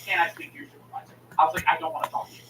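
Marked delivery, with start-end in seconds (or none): 0.1-1.1 low, softened voice; restrained request. Retold or imitated. Caller asking for a supervisor, quietly restrained. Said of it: "I'm not mad at you". 1.7-2.4 restrained refusal. Retold or imitated. Caller refusing the agent, quietly restrained. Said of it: "I'm not mad at you".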